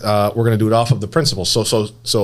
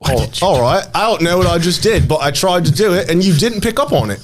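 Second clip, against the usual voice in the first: put-on English accent, pitched up; 5 semitones higher than usual. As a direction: play at being English, voice lifted. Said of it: "go into an English accent".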